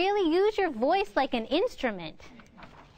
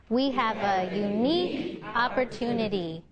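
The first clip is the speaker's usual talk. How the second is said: "unique" raised above the other words; inflect up; 2 semitones lower than usual. Shown as a demonstration. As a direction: voice lifts on "unique". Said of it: "inflect up on the word unique".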